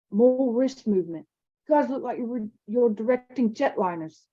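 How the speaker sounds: lightly voiced critical boy; a hint of a know-it-all friend; Ralph advising. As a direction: coach them dryly.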